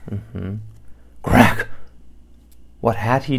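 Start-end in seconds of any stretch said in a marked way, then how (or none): 1.2-1.7 alarmed crack. A narrator's reading. Beast alarmed.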